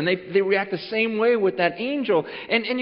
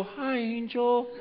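mock casual greeting; 4 semitones higher, 7 dB quieter, slower than usual. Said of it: "would you gather around and go".

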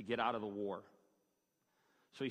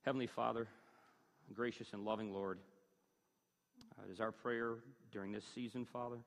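hushed, lower closing prayer; 3 semitones lower, 4 dB quieter than usual. Real, not acted. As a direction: address God softly, with reverent pauses.

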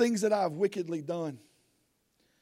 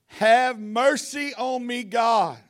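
pleading prayer; 2 semitones higher, much slower than usual. Acted. David crying out to God for mercy, pleading. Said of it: "The first thing out of his mouth is".

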